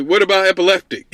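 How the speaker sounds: fast, laughing through it; laughing quote. Retold or imitated. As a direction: laugh while asking fast. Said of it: "He was like".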